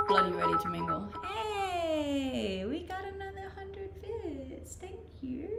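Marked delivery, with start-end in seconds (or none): none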